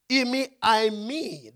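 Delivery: "Imi, I, me" sounded out as Greek syllables; Greek pronunciation. Shown as a demonstration. Preacher showing the congregation how the Greek sounds, sounded out. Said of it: "That's the way it sounds".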